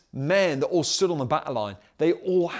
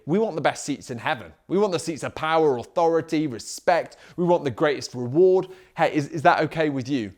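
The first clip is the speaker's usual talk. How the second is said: brash disciples; 4 dB louder than usual. Retold or imitated. Disciples' brash request, voiced.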